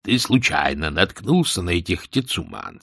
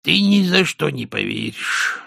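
higher-pitched, sighing prisoner's reply; 6 semitones higher than usual. A narrator's reading. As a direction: say it with a sigh, pitched up. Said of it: "вздохнув, промолвил узник". (со вздохом, повыше)

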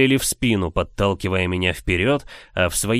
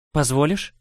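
sly witch asking; 4 semitones higher than usual. A narrator's reading. Witch asks for the spear.

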